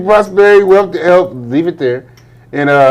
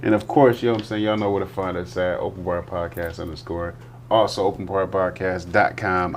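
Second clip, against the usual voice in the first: slurring; 9 semitones lower, 14 dB quieter than usual. Real, not acted. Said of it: "I sound like I'm slurring because I am".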